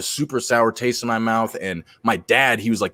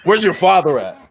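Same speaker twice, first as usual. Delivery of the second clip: higher, louder gruff grown-up voice; mock stern adult; 7 semitones higher, 5 dB louder than usual. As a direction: bark it like an annoyed stranger at the kid. Joking as a grumpy onlooker.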